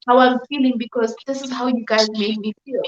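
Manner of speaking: tearful, voice catching; real tears, pushing through; crying. Real, not acted. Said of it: "I can't stop crying".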